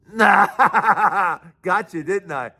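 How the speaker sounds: chuckling through the words; laughing gotcha. Retold or imitated. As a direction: tease him with a laugh. Cop reveals the prank, laughing.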